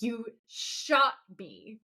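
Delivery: slow, deliberate deadpan accusation. Retold or imitated. Sam turning to Bella who shot him, slow deadpan. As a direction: spell it out slowly, without drama. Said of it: "looks at her deadpan and says".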